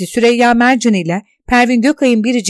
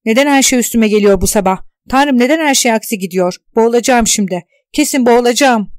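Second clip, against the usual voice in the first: loud, desperate complaint to the sky; panicked outburst; 5 dB louder than usual. Acted. Tuna overwhelmed by the jet noise, crying out loudly. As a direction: cry out as if drowning in it all.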